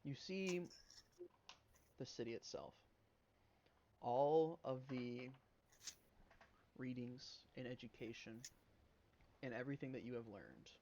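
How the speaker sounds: talking with a mouthful; eating chicken fried steak. Real, not acted. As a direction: speak around a bite of food. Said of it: "let me take another bite of my, uh, chicken fried steak".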